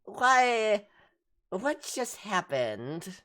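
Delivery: high, startled little cat voice, lightly voiced; a lightly voiced cat, startled and confused; a hint of a bewildered cat waking up; dazed cat. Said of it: "So the cat looks up at you guys".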